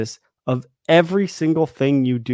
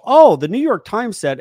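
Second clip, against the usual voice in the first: higher, louder "oh" of discovery; mocking, impressed-sounding exclamation; mock revelation; 8 semitones higher, 6 dB louder than usual. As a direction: imitate someone announcing a looked-up fact. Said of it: "they go look it up and they go".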